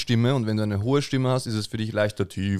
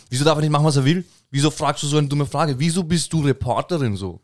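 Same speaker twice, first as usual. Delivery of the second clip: indignant defense; 5 semitones higher than usual. Retold or imitated. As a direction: scold the reporter in mock indignation. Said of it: "stabilem Russisch mit leichtem Akzent".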